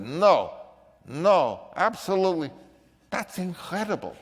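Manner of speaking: amazed boss. Retold or imitated. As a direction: gush over what you just saw. Bluhdorn reacting to the tape.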